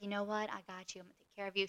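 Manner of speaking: tender coddling. Retold or imitated. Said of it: "coddling him like a baby".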